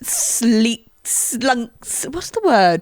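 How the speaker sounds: high, slow trailer-voice drama; hammed-up epic narration; mock dramatic narrator. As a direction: announce his entrance like a movie villain. Dramatic narration of Matt's entrance.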